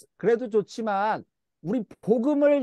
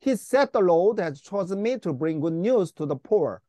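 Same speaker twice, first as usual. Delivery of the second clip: the whole verse read very slowly, word by word; slow read-aloud; 2 semitones lower, much slower than usual. Shown as a demonstration. Teacher reading the verse slowly to the class before translating. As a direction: read the verse slowly and clearly for them to follow. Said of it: "전체로 한번 읽고".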